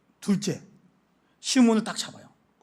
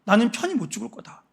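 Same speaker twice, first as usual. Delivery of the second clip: grieving lament; 3 dB quieter than usual. Retold or imitated. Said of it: "한을 갖고".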